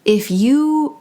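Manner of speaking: measured delivery with long pauses; channeled spiritual message. Acted. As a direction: speak as if receiving each phrase, unhurried.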